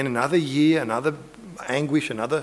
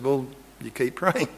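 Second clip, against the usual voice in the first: gentle reassurance; 5 dB quieter than usual. Retold or imitated. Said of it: "I said".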